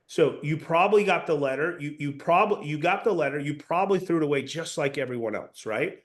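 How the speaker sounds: matter-of-fact, taking it as given; assumptive tone. Shown as a demonstration. Sales coach demonstrating an assumptive pitch. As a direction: say it like you already know. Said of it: "I did it with the assumptive tonality".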